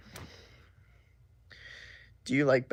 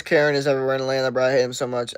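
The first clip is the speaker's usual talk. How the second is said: mock inspirational quote; 5 dB louder, much faster than usual. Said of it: "Inspirational quotes".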